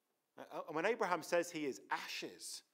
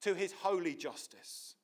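raised, urgent plea; pushing protest; 4 semitones higher, 4 dB louder than usual. Retold or imitated. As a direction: argue with God, voice up. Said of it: "He pushes into the character of God".

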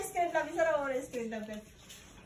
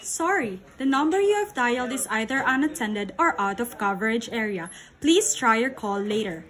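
phone recording voice. Pretend. Imitating phone operator recording.

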